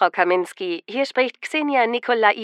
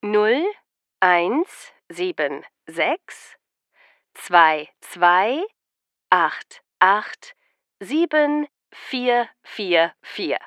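slow, each number separate with pauses; slow dictation; much slower than usual. Shown as a demonstration. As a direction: dictate digits slowly for note-taking. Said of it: "Noch einmal langsam zum Mitschreiben".

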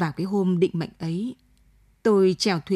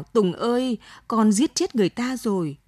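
a touch of a father's anguished wail, slightly raised; anguished cry; 2 semitones higher than usual. Acted. Father over the body cries to his son, mild anguished wail. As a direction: call out the son's name in grief, understated. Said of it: "rồi gào".

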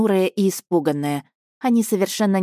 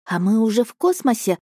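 put-on higher, careful boyish question; cautious boy; 5 semitones higher than usual. Nephew asking his uncle cautiously, higher voice. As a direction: ask warily like a child. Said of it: "осторожно спросил Алёша".

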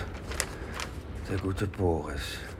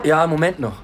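calling out; 9 semitones higher, 8 dB louder than usual. Acted. Calls out to visitor at door.

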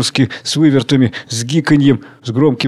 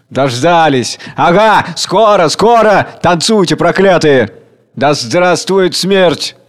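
loud, high triumphant shouts; gloating cries; 4 semitones higher, 4 dB louder, slower than usual. Acted. Crowd gloating at the dancers above, loud and high. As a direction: relish that the time has come.

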